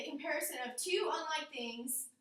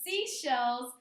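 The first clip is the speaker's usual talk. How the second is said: slow, careful tongue twister, stumbling once; the teacher tripping over a tongue twister, slowly; 4 dB louder, much slower than usual. Shown as a demonstration. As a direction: pick through each s sound slowly. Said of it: "Miss Norton struggled a little bit with saying".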